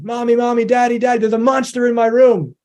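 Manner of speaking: put-on a small kid waking the parent about a monster; imitating six-year-old. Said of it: "your child runs in".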